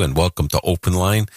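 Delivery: a light Brooklyn New York accent on the welcome. Shown as a demonstration. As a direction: greet them in a hint of your true Brooklyn New York accent. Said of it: "I could talk like this if I wanted to".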